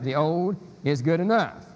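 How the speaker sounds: "enough" stressed at the end, falling; stress on the supplied word. Shown as a demonstration. Lecturer contrasting two readings, "enough" stressed. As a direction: land on "enough" with a fall. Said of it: "just to emphasize the word".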